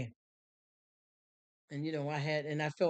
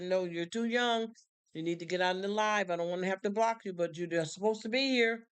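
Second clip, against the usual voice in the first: firm scolding; 3 semitones higher than usual. Retold or imitated. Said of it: "And I said".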